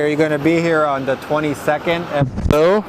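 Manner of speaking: muffled, covered mic. Real, not acted. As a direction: speak as if through a hand. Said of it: "sorry, it got muffled".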